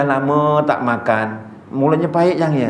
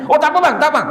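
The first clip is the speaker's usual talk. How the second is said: much higher mock beggar voice, laughing; wheedling beggar; 11 semitones higher, faster than usual. Beggar on a motorbike greets the ustaz, high wheedling mock voice. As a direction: sweet-talk the ustaz with a laugh. Beggar declines pharmacy offer.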